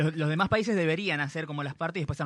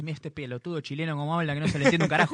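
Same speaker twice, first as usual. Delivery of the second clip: mock Argentine woman; faster than usual. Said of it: "te habrá escuchado hablar así".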